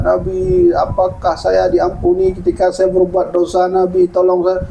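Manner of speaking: imitating a crying youth begging for help; mock wailing plea. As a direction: plead on one sustained note as if weeping. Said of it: "menangis teriak".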